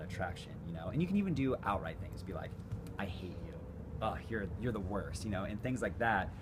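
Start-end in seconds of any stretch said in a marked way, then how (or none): 3.0-5.2 flirty tease. Shown as a demonstration. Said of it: "saying with a smile and flirtatiously".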